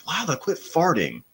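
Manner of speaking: mock scolding the dog. Owner telling his dog in bed to quit, high mock scold. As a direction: squeak it up high like telling off a naughty pet.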